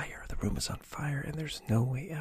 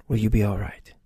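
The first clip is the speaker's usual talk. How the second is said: concerned; 9 dB louder than usual. A narrator's reading. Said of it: "you ask with concern".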